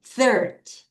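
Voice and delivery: Thirty with strong THIR, faint ty; THIR-ty, ending barely voiced; weak ty. Shown as a demonstration. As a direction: hit THIR, nearly swallow ty. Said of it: "T를 약하게 읽어요".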